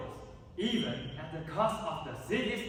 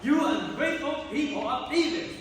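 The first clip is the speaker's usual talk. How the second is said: higher, louder angry cry at the crowd; furious outburst; 6 semitones higher, 3 dB louder than usual. Acted. Spurned prince rages at the people of Thebes, higher and louder. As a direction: hurl it at the whole city.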